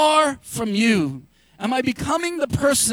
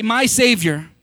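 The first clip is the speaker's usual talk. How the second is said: call and response; 5 dB louder than usual. Shown as a demonstration.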